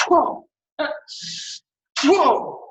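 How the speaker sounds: explosive high "whoa" on the strike; sharp martial-arts exhale shout; loud breath shout. Shown as a demonstration. Instructor demonstrating punches to the class, explosive shout.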